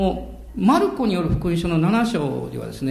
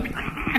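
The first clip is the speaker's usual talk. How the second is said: imitated cicada buzz; 6 dB quieter than usual. Imitating a cicada struggling to flee.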